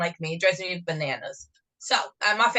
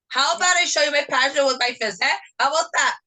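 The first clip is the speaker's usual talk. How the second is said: higher, mock-tough New Jersey threat; tough New Jersey accent; 6 semitones higher, faster than usual. Retorting to the Texan lady in a hammed-up New Jersey accent. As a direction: act like a Jersey tough making a joke threat. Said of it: "Your accent changes when you're passionate".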